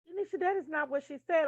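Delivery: mock a friend setting you straight; imitated correcting friends. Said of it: "y'all be like".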